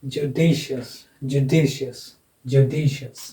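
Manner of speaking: "judicious" with the middle syllable stressed; stress demonstration. Shown as a demonstration. Teacher showing students the accented syllable, stress on the middle of "judicious". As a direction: lean on "di" in "judicious". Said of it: "ये वाला होगा".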